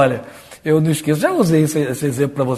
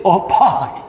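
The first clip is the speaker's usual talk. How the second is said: mildly put-on praying voice; affected prayer voice. Man showing how he addresses God, affected prayer voice. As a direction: imitate a man's stylized call to God. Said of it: "fala desse jeito?".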